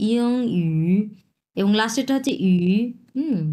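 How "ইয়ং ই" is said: ইয়ং ই with a light, barely voiced ই; touch the ই of ইয়ং ই only slightly. Shown as a demonstration. Teacher shows students a light, slight ই. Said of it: "খুব স্লাইটভাবে আমরা উচ্চারণ করব".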